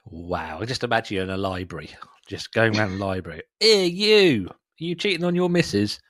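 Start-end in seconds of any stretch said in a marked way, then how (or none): 3.6-6.0 put-on high, loud Finnish accent shout. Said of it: "I'm against doing a Finnish accent".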